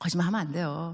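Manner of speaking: small, hushed, soft, quiet delivery. Showing how they once said this line back then: soft, quiet voice. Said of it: "난 조그맣게 말했어요. soft. ... 이렇게 말했어요".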